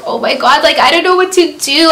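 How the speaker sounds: mock-tearful fluster; retold crying. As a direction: replay a tearful, helpless plea. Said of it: "I just started crying".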